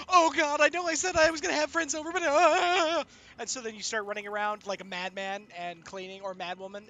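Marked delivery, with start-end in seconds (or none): 0.1-3.0 loud, fast panicky rant; mock panic, rushing the words; panicked. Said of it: "and you're like".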